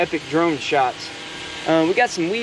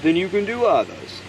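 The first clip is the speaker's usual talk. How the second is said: halting, drawn-out celebrity impression; Christopher Walken. Vlogger musing on words done better, Christopher Walken impression. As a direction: lightly imitate an actor's odd pauses and swooping stresses. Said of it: "I can do a Christopher Walken".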